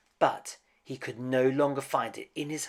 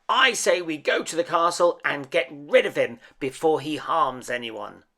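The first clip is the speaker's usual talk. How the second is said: rousing shout; 4 semitones higher, 8 dB louder than usual. A narrator's reading. Gaston rousing the angry mob.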